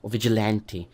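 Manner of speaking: "vigilante" with a flat A, as in "ant"; American pronunciation. Shown as a demonstration. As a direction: say "vigilante" as vij-i-LAN-tee. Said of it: "not vigilante".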